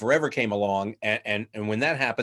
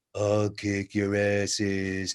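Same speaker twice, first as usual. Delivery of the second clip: flat monotone, every word stretched out; 3 semitones lower than usual. Directing a voice actor on Duke's line, showing the wrong way: stretched-out monotone. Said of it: "don't just go".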